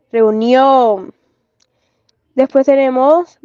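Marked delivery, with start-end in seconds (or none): 0.1-1.1 "reunión" with NIÓN held and stressed; "reunión" as a careful demo, weight on NIÓN; stress on last syllable. Shown as a demonstration. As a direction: stretch the end of "reunión". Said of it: "el acento está en la última sílaba".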